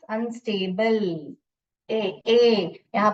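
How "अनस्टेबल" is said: अनस्टेबल with no sound on the final e; teacher modelling; silent e read. Shown as a demonstration. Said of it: "मगर ई का sound नहीं है".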